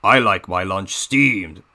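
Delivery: lightly Russian villain joke; deadpan villain pun; Diesel 10 Russian accent. Acted. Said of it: "my Diesel ten voice impression".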